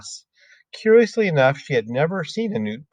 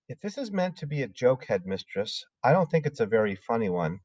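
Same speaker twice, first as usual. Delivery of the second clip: softer, hushed teacher objecting; Miss Honey, quiet; 6 dB quieter than usual. Acted. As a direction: quietly push back on the headmistress. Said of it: "Miss Honey said".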